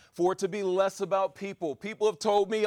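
usual speaking voice

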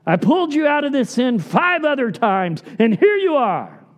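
an impatient rescuer fed up with a repeat offender; exasperated God. Pretend. Preacher voices an impatient God scolding a sinner, exasperated. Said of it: "He's not sitting there going".

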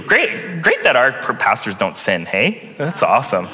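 dry mock praise, tongue in cheek; sarcastic. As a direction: say it with obvious sarcasm. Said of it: "that was sarcasm".

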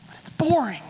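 guilty little whisper; whispered excuse. Pretend. Believer admitting Bible reading bores them, whispered. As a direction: confide it under the breath.

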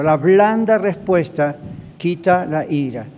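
slow, every word weighted, "blanda" leaned on; slow emphatic quote. Shown as a demonstration. Pastor teaching the verse to the church, slow and deliberate. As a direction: spell out "La blanda respuesta quita la ira" slowly, hitting "blanda". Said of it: "La blanda respuesta no es".

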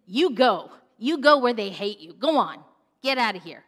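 loud jeering push; mocking brothers. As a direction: shove him off with scorn. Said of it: "his brothers are mocking him, saying".

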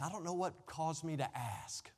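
hushed whisper, half to himself; whispered aside. Real, not acted. Preacher whispering an aside to the congregation. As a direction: drop to a whisper as if wondering aloud. Aside while retelling the story.

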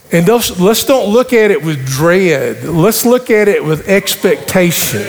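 sermon preaching. Acted. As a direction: preach it to the congregation. Pastor preaching the message.

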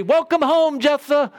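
high, mock-cheerful cow greeting; a hint of a cartoon cow calling hello; talking cow. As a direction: lightly voice a silly cow welcoming him home. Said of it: "the cow going to come meandering out the front door and say".

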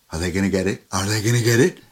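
teasing suspense voice. Retold or imitated. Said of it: "standing there looking".

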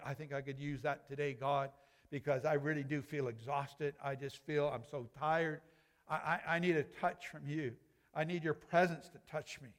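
a tired believer murmurs for help; weary quiet prayer. Retold or imitated. Tired worshipper asks God for strength, softly and wearily.

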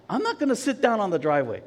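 mildly irritated, quick refusal; mock stubborn huff, rushed; retold anger. Injured man refuses wife's order to sit, mild retold anger. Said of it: "I'm angry. I'm, like, mad".

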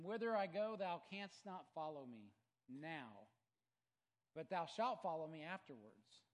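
loud, then slow and drawn out. A narrator's reading. Jesus answers Peter, loud preaching voice. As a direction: proclaim it from the pulpit. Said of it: "And Jesus answered him".

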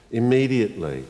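"Immediately" said softly at normal pitch with a gentle fall; quiet. Shown as a demonstration. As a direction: let "Immediately" settle like an amen. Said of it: "look for the word immediately".

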